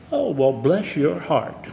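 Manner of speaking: slow, gentle, soft-spoken; slow and kind on the surface; gentle Southern lady. Acted. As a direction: Tallahassee lady answering a boast, slow and gentle. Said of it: "gentle and soft-spoken".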